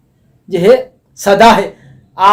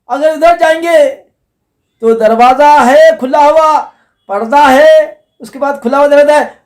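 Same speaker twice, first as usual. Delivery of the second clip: higher-pitched warning call; 5 semitones higher than usual. Retold or imitated. Caller warns a traveller who tries to peek, calling out. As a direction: call after someone straying, voice lifted. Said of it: "कोशिश करता तो पुकारता".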